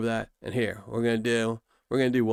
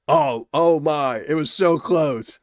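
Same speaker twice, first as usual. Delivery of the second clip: slow, louder oh my; so close, groaning it out; dismayed near miss; 2 semitones higher, 5 dB louder, slower than usual. Real, not acted.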